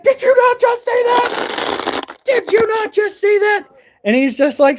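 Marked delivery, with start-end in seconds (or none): 0.0-3.7 high, slow, freaked-out pleading; panicked disbelief. Retold or imitated. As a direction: squeal it out slowly, panicking.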